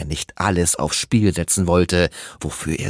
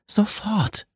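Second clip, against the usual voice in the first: self-command. Acted. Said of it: "sagte sie sich".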